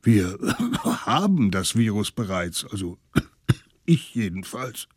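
mit Hustern zwischen den Worten; hustend. Acted. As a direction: sprich durch den Husten hindurch. Alter Mann hustet beim Sprechen. (kranker Alter, der beim Reden hustet)

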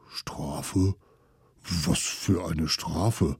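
a mild alarmed mammoth; worried mammoth. Acted.

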